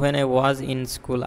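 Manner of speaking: very slow model phrase; unhurried example. Shown as a demonstration. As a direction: say the example slowly. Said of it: "যেমন for instance".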